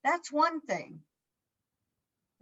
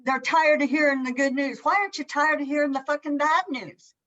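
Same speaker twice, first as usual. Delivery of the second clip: edgy rant; 3 semitones higher, 4 dB louder than usual. Real, not acted. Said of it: "I get a little edgy about this".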